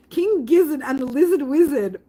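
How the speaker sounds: reads the name out high and laughing; amused reading. Real, not acted. Streamer reading a band name aloud, amused and laughing. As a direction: savour the silly name.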